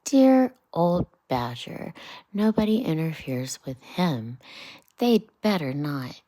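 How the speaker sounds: storybook Rat, half whispered, half declaimed; Rat, lightly voiced. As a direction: Rat grumbling about the crowded bank. Rat on Badger.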